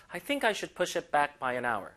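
slow model reading. Shown as a demonstration. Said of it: "model sentence".

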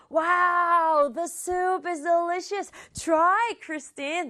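flustered, high-pitched change of subject; startled. Acted. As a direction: blurt it high, covering up in a hurry. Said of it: "화들짝 놀라면서". (화들짝 놀라서 높은 목소리로 말 돌리기)

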